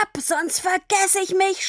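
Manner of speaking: high, furious order to leave; shouting. A narrator's reading. Papa orders Tini away, furious. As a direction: send her off in a rage. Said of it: "schrie er".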